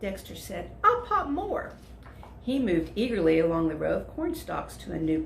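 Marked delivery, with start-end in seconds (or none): 0.8-1.7 eager. Acted. Eager dragon.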